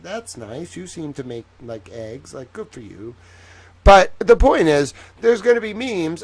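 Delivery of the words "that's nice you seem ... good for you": cooing at chickens. Retold or imitated. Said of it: "and I was like".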